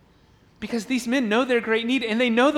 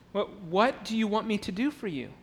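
quiet question; 5 dB quieter than usual. Shown as a demonstration. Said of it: "it's a curious question".

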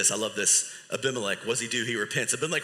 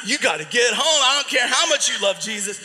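retold frantic phone call, raised voice; exasperated plea; 4 semitones higher, 4 dB louder than usual. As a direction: mock-desperate demand at a higher pitch. Frantic parent phoning the spouse.

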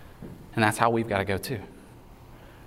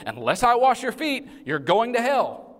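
Jesus' blunt warning; 11 semitones higher than usual. Retold or imitated. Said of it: "Jesus' kind of simple way of saying".

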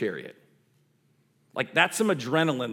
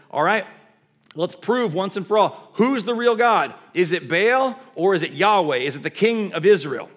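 loud, higher-pitched showdown challenge; raised voice, demanding a decision; bold challenge; 6 semitones higher, 7 dB louder than usual. Acted. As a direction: throw it down loudly to a crowd. Elijah issues a public showdown challenge.

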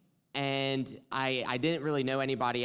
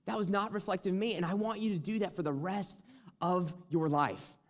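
higher, gentle voice of God answering; voice of the Lord; 6 semitones higher than usual. Retold or imitated. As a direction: let the Lord's words come high and tender. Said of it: "the Lord just spoke to me".

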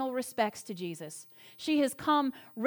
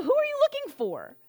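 higher, lilting angel's question; gentle angel; 12 semitones higher than usual. Acted. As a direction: angels asking weeping Mary, lightly voiced. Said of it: "they say, you know".

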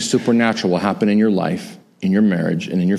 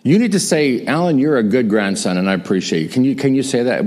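insistent teasing; 2 semitones higher than usual. Retold or imitated. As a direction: coax grandma to say it. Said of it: "I said".

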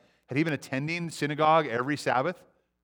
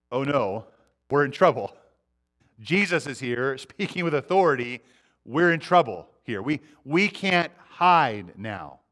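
panicked demon; slower than usual. Acted. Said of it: "what the demon it sees is this".

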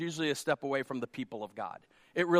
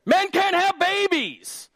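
slow, high, loud declaration; emphatic pulpit proclamation; louder again; 13 semitones higher, 6 dB louder, slower than usual. Real, not acted. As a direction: hammer can't home. Repeated climax.

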